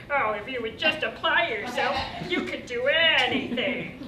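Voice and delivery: lightly mocking dad voice, stretching the ending; mock fatherly pep talk in a Kermit-like voice; Kermit-like dad impression. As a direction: imitate a preachy dad, a touch Kermit. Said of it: "That's Kermit".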